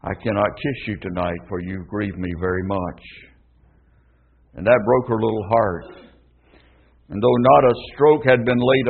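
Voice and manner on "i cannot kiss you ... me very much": soft, sorrowful father; a gentle father's grieved reproach; quietly heartbroken father telling his child; very sad voice. Acted. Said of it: "in a very sad voice".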